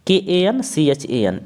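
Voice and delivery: के ए एन सी एच ए एन spelled slowly, letter by letter; teacher repeats the spelling of कंचन slowly for students. Shown as a demonstration. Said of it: "इस तरह से लिखेंगे".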